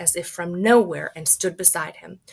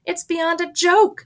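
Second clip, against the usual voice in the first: high, loud, slow protest; indignant father; 11 semitones higher, 6 dB louder than usual. Acted. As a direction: drag out the outrage. Mr Gloop objects.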